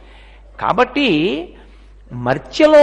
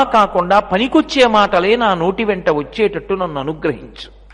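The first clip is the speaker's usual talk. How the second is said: humble prayer; 2 semitones lower than usual. Shown as a demonstration. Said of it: "ఎందుకు ప్రార్థన చేశాను".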